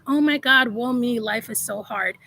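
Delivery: woe-is-me lament, sinking as it goes; mock self-pity. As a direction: imitate a complainer, voice dropping away at the end. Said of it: "the low vibrational energy of".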